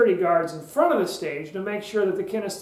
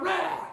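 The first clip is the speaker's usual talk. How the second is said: mock charging "rah"; 10 semitones higher, 5 dB quieter than usual. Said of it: "if you start rushing out".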